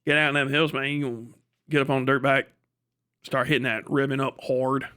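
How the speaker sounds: rough imitation of a Kentucky hill accent; mock Kentucky good-old-boy accent. Shown as a demonstration. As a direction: put on a loose Kentucky accent. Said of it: "fuck, Kentucky".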